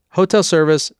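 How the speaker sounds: high, bright sing-song call. A narrator's reading. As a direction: chirp it like a cheerful maid. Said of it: "a young woman's voice sang".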